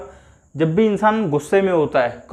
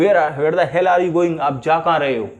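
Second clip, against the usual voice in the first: angry question. Shown as a demonstration. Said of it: "गुस्से में आप किसी से पूछ रहे हो".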